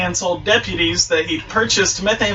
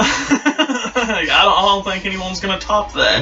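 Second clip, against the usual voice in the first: talking through leftover laughter; laugh, then get the words out. Real, not acted. Host admits nobody will top that story, laughing. Still amused by meth story.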